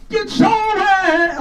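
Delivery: high, slow booming diva; Jennifer Lewis. Retold or imitated. Comic tries the strong Jennifer Lewis voice on a bad mic, high and slow. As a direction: stretch it out big. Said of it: "got that strong voice".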